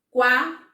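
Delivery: "Quarenta" in three loud, separate beats: qua... ren... ta; long pauses between each syllable of "Quarenta". Shown as a demonstration. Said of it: "quantas vezes eu falei as sílabas".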